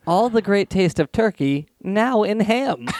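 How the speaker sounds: mock commercial tagline, slowing at the end; ad slogan. Pitching turkeyed ham to the guys, mock ad slogan. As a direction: sell it like an ad, stretching the last words. Reads his invented ad slogan.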